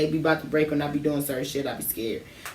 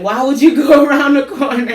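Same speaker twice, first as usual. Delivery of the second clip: higher, louder mock auntie; scolding auntie; 8 semitones higher, 9 dB louder than usual. Auntie scolding the kids for leaving the block, higher and louder. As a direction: play the mad auntie.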